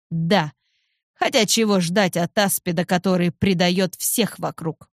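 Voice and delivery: usual speaking voice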